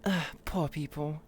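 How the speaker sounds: "Ugh" sighed, "poor people" dismissive; mild posh disdain; snooty sneer. Shown as a demonstration. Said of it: "There you go".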